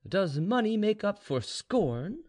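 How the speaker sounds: slow, high, insistent question; pressing. A narrator's reading. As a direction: press him slowly in a high voice. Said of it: "pressing Ivan more and more".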